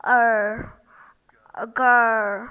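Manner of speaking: put-on girl with long er, no R. Shown as a demonstration. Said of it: "The first vowel sound".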